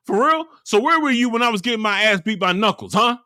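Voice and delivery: high, fast mock accusation; indignant comeback. Friend answering Pac-Man's complaint, mock indignant. Acted comeback in retold quarrel.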